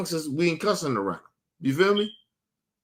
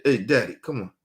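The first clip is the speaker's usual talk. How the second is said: imitating a daughter; 7 semitones lower than usual. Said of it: "my daughter said".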